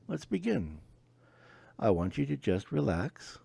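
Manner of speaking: upbeat, bright doctor patter; friendly clinician voice. Acted. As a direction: play the cheerful transformation specialist. Transformation specialist role.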